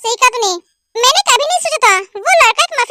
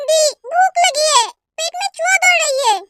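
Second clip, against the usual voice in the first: whiny drama; 3 semitones higher than usual. Acted. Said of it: "ड्रामेबाज कहीं का".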